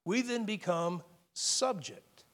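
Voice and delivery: pause, then land on "subject" slowly; slow lead-in, with "subject" set apart and stressed. Real, not acted. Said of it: "I want to emphasize a different word".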